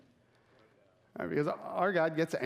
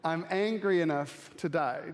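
slow relished quote; 2 semitones higher than usual. Retold or imitated. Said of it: "my favorite verse".

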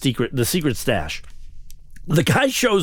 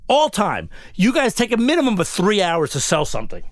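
higher-pitched, exasperated retold rant; worked-up indignation; 3 semitones higher than usual. Customer demands to see the car, worked-up and indignant. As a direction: demand answers, emphatic and incredulous. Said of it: "you're getting really excited".

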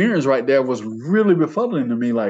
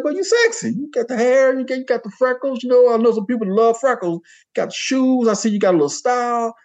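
complimenting; 9 semitones higher than usual. Retold or imitated. Retold complimenting of a stranger.

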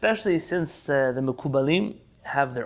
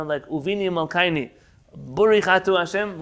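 Hasidic Ashkenazi Hebrew accent, u vowels for a and o. Shown as a demonstration. Teacher to class, showing the Hasidic Hebrew accent. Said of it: "the Hasidic accent of Hebrew".

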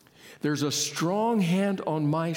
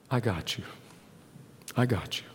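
gentle reassurance; 6 semitones lower, 4 dB quieter, faster than usual. Retold or imitated. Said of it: "hear that voice saying".

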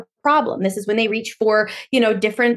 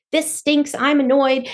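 mock annoyed; 4 semitones higher, slower than usual. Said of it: "You felt fed up".

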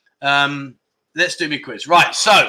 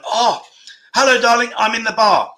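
lightly voiced sultry greeting; femme fatale; 4 semitones higher than usual.

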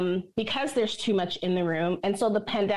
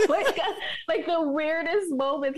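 laughing; 6 semitones higher than usual. Real, not acted. Laughing through the story.

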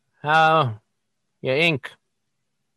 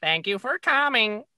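high squawky parrot voice; 9 semitones higher than usual. Acted. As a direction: repeat it like a parrot. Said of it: "the parrot's like".

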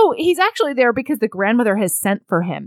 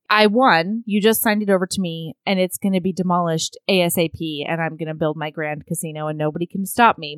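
low, fast gloating villain; mad scientist; 6 semitones lower, 3 dB quieter than usual. Retold or imitated. Villain gloats over his win.

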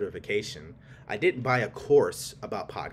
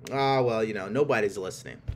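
doubting inner voice; 3 dB louder than usual. Retold or imitated. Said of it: "the paradigm trying to talk you out of it".

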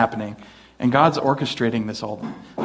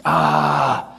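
exasperated God; 5 semitones higher, slower than usual. Acted. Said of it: "He's like".

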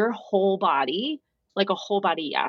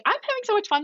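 tipsy cheer; 13 semitones higher, faster than usual. Retold or imitated. Tipsy self quoted to friend.

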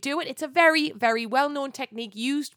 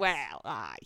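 lower, quiet "Well, aye" in a soft Geordie lilt; 10 semitones lower, 6 dB quieter than usual. Shown as a demonstration. Showing her friend her real Geordie phrase, low. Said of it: "I say, like".

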